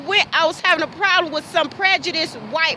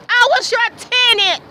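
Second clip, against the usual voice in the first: pitched up and louder; angry yell; 7 semitones higher, 4 dB louder than usual. Real, not acted. Yelling at the landlord who wronged her, higher shout. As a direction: throw it at him harder.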